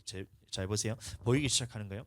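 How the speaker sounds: ordinary talk, nothing marked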